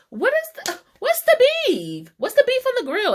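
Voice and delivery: teacher's catchphrase voice. Retold or imitated. Imitating her seventh-grade teacher asking about the beef. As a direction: ham up an old teacher's favourite line. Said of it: "as Mister Borman from my seventh grade used to say".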